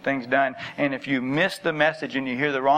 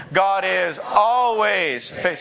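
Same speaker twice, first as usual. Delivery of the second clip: "always" held long and slow; stress on ALWAYS; 4 semitones higher, much slower than usual. Shown as a demonstration. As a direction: lead a crowd repeat, dragging out "always". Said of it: "you gotta emphasize the always".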